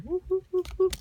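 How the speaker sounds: high-pitched excited whoops; excited woo. Real, not acted. Vlogger cheering at a good pack pull. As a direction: chant woo up high with glee. Cheering while opening packs.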